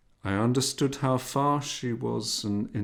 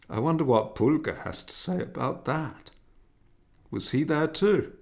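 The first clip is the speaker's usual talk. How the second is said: mother's voice; 6 semitones higher than usual. A narrator's reading. Mother teasing son.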